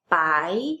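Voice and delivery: "By" starting low and gliding up; rising second tone. Shown as a demonstration. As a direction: lift "By" like a question. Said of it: "rising tone".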